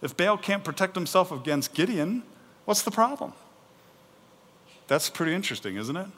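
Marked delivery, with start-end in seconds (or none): 0.0-3.3 higher, casual challenging voice; Gideon's dad. Acted. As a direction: toss it out as an easy challenge. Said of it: "And his dad says".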